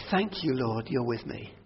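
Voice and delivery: soft, intimate thanks to the Lord; quiet grateful prayer. Retold or imitated. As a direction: murmur thanks to God in the morning. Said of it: "I can say".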